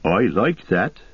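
homely companion with a rising lilt; Sam, admiring. Acted. Hobbit praises the dwarf's chant, simple admiration.

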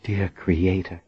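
hushed dismayed whisper. A narrator's reading. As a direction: breathe it out in dread. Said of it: "Verna whispered".

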